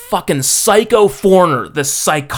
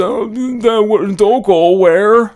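confused guard; 6 semitones higher, slower than usual. Retold or imitated. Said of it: "he said".

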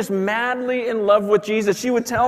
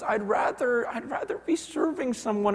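hushed; 4 semitones higher, 5 dB quieter than usual. Retold or imitated. Grandma's quiet confession at the play.

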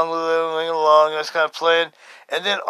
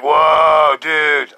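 acted amazement; 6 dB louder than usual. Acts amazed reaction to hand.

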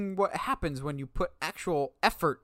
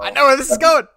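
loud, higher-pitched knowing outburst; excited interjection; 9 semitones higher, 13 dB louder than usual. Real, not acted. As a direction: cut in loudly, you know this story. Friend cuts in, recognizing the story.

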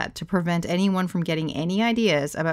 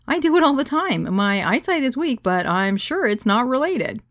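joking; 7 semitones higher, 4 dB louder than usual. Retold or imitated. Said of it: "tried to lighten the mood".

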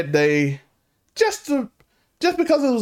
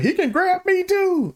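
much higher, slow, swooning voice; mock old lady; 11 semitones higher, slower than usual. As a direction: play a giddy admirer. Voicing old white women.

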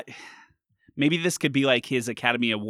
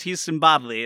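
put-on old-timey radio voice; 3 semitones higher than usual. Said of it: "I'm on an old-timey radio right now".

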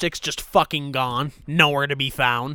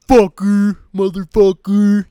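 mock shout, higher and much louder; loud public swearer; 5 semitones higher, 9 dB louder than usual. Host imitating a stranger swearing in a mall, loud voice. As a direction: imitate someone yelling curses across the room. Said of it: "you'll hear a loud fucking voice".

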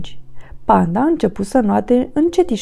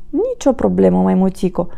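gentle reassurance; 3 semitones lower than usual. Acted. Panda forgives the sorry monkey, gently. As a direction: reassure kindly, settling lower at the end. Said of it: "zise el cu blândețe".

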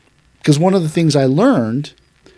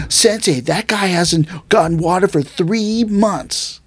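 higher, slow, exaggerated tattling voice; mock whiny complaint; 4 semitones higher, slower than usual. Student tattling to sensei about water, hammed-up whine. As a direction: overplay the grievance like a tattler.

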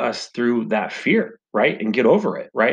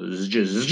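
buzzing zip-line zoom noise; quick buzzy whoosh made by mouth; imitated zip-line whizz; 2 semitones lower than usual. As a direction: mimic someone whizzing away on a cable. Imitates him zooming down the line.

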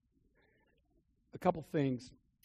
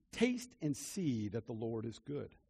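scripture reading; 6 semitones lower, 6 dB quieter than usual. Shown as a demonstration. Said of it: "The scripture says in Psalms".

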